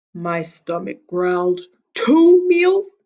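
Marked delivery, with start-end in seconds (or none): 1.9-3.0 high, loud, greedy surprise; excited hunger. A narrator's reading. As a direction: gasp it out with sudden appetite. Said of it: "I thought".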